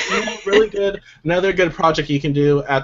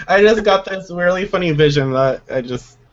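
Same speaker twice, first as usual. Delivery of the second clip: laughing; 4 semitones higher than usual. Real, not acted. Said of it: "I can't stop laughing now".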